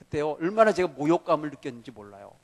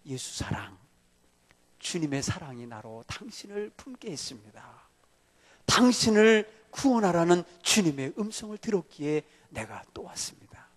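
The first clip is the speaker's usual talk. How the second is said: tender appeal; 3 dB quieter than usual. Retold or imitated. Preacher voices his tender appeal.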